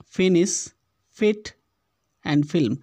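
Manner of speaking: फिनिश, फिट, film with a short "i". Shown as a demonstration. Teacher repeats the same-sounding options, short i in फिनिश, फिट, film. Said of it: "छोटी ई की मात्रा का उच्चारण".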